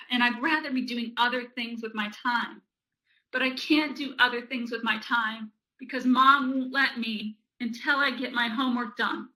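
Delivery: mildly whiny, emphatic griping; acted resentment. Child complains Mom won't let them play, sulky griping. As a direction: gripe like a kid stuck doing homework.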